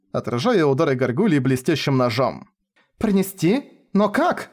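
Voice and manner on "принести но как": неуверенно. A narrator's reading. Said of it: "неуверенно возразила Шура".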